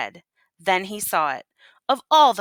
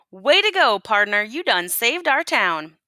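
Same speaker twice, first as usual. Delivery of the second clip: cheering; 2 semitones higher than usual. Acted. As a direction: hail him as a hero. Townsfolk cheer.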